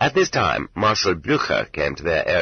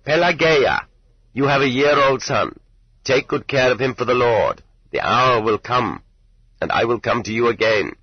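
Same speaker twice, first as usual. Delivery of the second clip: authoritative prophecy; 5 semitones higher than usual. Acted. Portly stranger foretells to the pious wife, authoritative. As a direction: speak it clearly, as unquestionable law. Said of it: "spoken so clearly and authoritatively".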